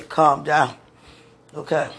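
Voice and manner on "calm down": self-soothing. Real, not acted.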